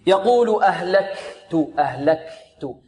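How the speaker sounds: slow "أهلكت" with breath released on the kaf. Shown as a demonstration. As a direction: let air flow after the k in "أهلكت". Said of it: "الهمس يكون في الساكن والمتحرك". (همس الكاف في "أهلكت" مع جريان النفس)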